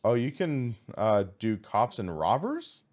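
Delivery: ordinary talk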